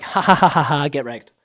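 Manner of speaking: mocking laugh. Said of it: "they're just like".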